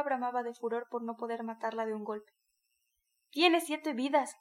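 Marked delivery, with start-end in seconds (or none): 3.3-4.3 slow, louder jeer; jeering shout. A narrator's reading. Bystanders jeering at the mare, slow mocking shout. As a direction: drag it out mockingly. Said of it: "gritaron algunos".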